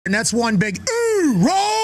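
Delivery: excited shout. Real, not acted. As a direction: fire up the crowd. Interviewer hypes Marines chant.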